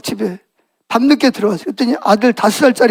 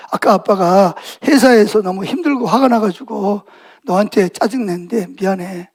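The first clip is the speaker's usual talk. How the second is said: apologetic; 3 semitones lower than usual. Acted. Acted father apologizing to his son.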